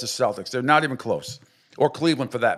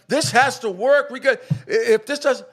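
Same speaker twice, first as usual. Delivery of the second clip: mocking Clay Travis; 9 semitones higher than usual. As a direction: ham up his pleading. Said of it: "and he's like".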